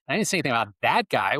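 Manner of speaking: "that guy" pointed, said quickly; "I didn't say anything about that guy" with the weight on "that guy"; stress on THAT GUY. Shown as a demonstration. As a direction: stress "that guy" to hint at another one. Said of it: "Well, it was a different guy".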